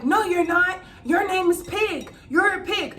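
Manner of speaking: mocking bully. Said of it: "he's like".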